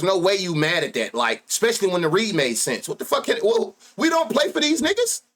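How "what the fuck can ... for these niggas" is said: exasperated outburst. Real, not acted. Exasperated at losing bettors.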